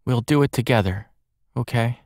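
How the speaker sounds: gentle. Acted. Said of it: "Nine said gently".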